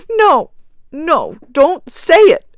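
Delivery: high, loud, frantic protest; wild cry. A narrator's reading. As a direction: cry out wildly to silence him. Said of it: "cried the woman wildly".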